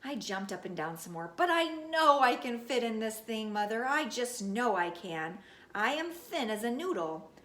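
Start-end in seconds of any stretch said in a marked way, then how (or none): 1.4-7.3 pleading. Acted. Junie B begging mother for ring.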